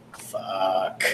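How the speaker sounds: soft, drawn-out swear under the breath; very quiet curse. Acted. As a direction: swear quietly to yourself, stretching it out. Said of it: "anyone nearby would just hear very quietly".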